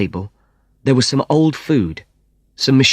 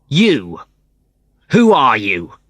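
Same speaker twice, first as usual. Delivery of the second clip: shouted; 3 semitones higher, 4 dB louder, slower than usual. Acted. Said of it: "someone shouted".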